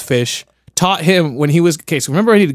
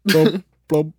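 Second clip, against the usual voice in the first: burbling fish noises; bubbly forgetful goldfish voice; 4 semitones higher, much slower than usual. Pretend. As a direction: blub like a fish. Shark answers in mock court.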